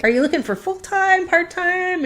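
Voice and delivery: high-pitched tentative query; retold questioning. She asks the boss about job hours, questioning. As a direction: act out sounding out an offer.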